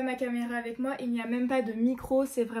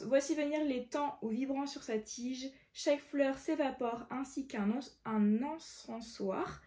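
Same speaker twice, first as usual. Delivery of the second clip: measured verse read-aloud; careful recitation of verse; poem reading; 3 semitones higher, slower than usual. Acted.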